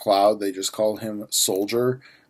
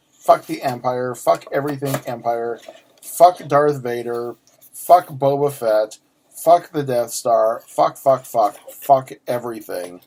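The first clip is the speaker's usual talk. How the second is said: ranty mode; 4 dB louder than usual. Real, not acted. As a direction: hammer each fuck out deliberately. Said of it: "Ranty mode".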